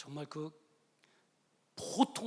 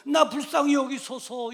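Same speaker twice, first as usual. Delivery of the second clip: pleading prayer; 8 semitones higher, 11 dB louder than usual. Retold or imitated. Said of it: "이 여인의 기도 봐요".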